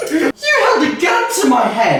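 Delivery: cracking up mid-line; trying not to laugh. Real, not acted. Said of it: "I couldn't keep a straight face".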